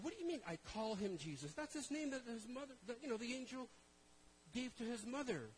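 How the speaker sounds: high, rising protest; indignant surprise. Retold or imitated. Preacher retelling his shocked reply to the guide, indignant. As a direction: push back in disbelief. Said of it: "I said".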